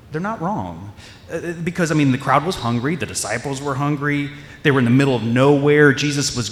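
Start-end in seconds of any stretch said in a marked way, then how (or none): 0.1-0.9 quiet repeat. Shown as a demonstration. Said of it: "and I'll say this".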